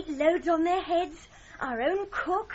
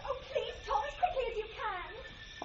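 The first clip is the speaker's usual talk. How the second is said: frightened plea; 5 semitones higher, 4 dB louder than usual. Acted.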